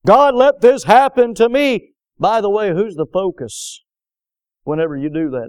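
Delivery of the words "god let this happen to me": loud, higher-pitched mimicked blaming; mock complaint. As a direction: protest as if wronged, hammed up. Mimics believer blaming God.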